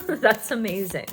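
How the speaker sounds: delighted laugh into the words. Real, not acted.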